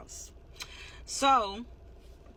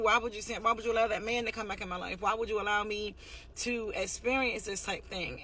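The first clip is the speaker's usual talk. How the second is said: mildly pleading questions, higher than usual talk; retold crying out; 3 semitones higher than usual. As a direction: imitate a hurt plea to God without sobbing. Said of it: "I was hurt and I was crying out".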